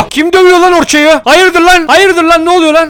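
high, loud, confrontational yell; angry challenge. Acted. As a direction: storm in demanding who did it. Friend being beaten, charging in.

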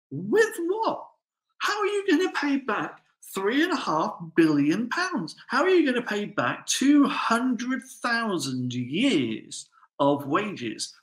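scoffing high-pitched incredulity at the promise; incredulous. Acted. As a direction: ask it like the idea is absurd. Preacher mocks the debtor's plea.

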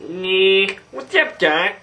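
lightly voiced wisecracking cartoon rabbit; a so-so cartoon rabbit impression; Bugs Bunny. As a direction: attempt a casual cartoon rabbit greeting. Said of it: "my Bugs Bunny isn't that good".

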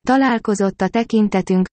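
usual speaking voice

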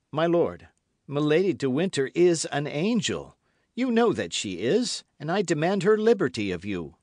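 high, loud, impassioned defence of a lady; fervent young officer. A narrator's reading. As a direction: demand it of your lord with conviction.

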